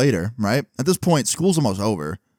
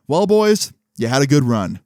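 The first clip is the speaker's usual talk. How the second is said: high, louder opening, then dropping; mock-principal send-off; 4 semitones higher, 4 dB louder than usual. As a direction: announce the end like a principal. Principal retold announcing expulsion.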